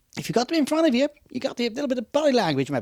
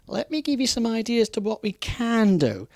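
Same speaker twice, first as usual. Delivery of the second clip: polite refusal to a customer; 3 semitones higher than usual. Shown as a demonstration. Salesman to a demanding customer, polite and firm. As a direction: turn the customer down politely, stretching the however. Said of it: "the trick is to say no, however".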